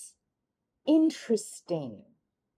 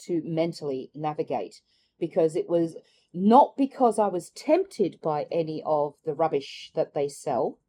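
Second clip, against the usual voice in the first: ordinary talk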